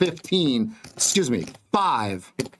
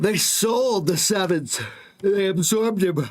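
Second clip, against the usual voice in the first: talking through a yawn, pitched up; 6 semitones higher than usual. Commenting on the tape to the guys, yawning while talking. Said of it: "Sorry for yawning".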